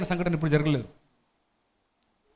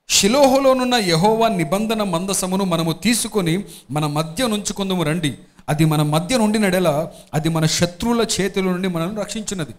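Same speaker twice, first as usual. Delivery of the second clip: scripture reading. Acted. Pastor reading scripture to the congregation, slow and solemn. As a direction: read it out to the congregation, weighty and slow. Pastor reads Bible passage aloud.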